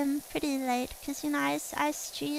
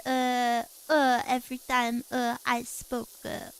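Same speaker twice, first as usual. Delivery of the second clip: French-style filler uhs; 5 semitones lower than usual. Pretend. Streamer joking about French speakers saying uh, filler-laden. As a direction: break the sentence up with habitual uhs. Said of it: "comes naturally for some reason".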